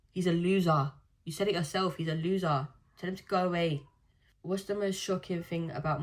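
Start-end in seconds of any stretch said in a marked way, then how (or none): 0.1-3.8 louder, emphatic put-down; firm loud advice. Real, not acted. Urging a heartbroken viewer to move on, firmly. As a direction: say it like it's settled.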